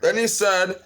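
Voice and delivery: ordinary talk, nothing marked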